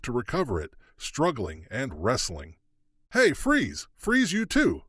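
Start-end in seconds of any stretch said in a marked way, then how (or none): 3.1-4.8 high, loud commanding yell; authoritative yell. Acted. Marshals order both women to freeze, loud commanding yell. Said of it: "yelled authoritative voices".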